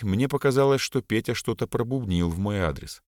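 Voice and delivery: usual speaking voice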